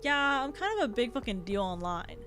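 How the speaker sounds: put-on lightly done Valley Girl accent. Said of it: "I already gave him a Valley Girl accent".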